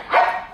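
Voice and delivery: small yappy sneeze; tiny sneeze-bark. Retold or imitated. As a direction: mimic a little dog's sneezy bark. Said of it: "He's like".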